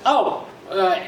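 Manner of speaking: lightly mimicked Indian accent; a hint of an Indian accent, imitating. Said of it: "in an Indian accent".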